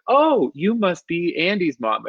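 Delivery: high, slow swooping exclamation; mock gushing greeting; acted delighted recognition. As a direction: play a townsperson thrilled to place a stranger. Voicing townspeople recognizing his mom.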